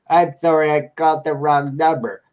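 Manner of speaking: imitated odd old lady caller; weird old lady. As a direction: put on an old woman's wrong-number apology. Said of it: "it's the same old lady with the same".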